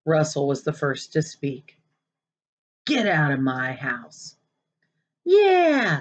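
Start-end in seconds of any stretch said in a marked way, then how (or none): 2.9-4.4 low and slow, icy; a kid throwing him out; cold order out. Acted. Boy ordering Maniac out. 5.2-6.0 high loud jeering yeah; little brother sneering along. Acted. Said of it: "sneered Piper".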